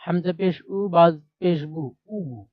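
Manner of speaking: measured drill: হামজা পেশ উ, বা পেশ বু, then the blend; two-letter blending demo. Shown as a demonstration. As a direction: spell each letter with পেশ, then join উ and বু. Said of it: "এভাবে করে".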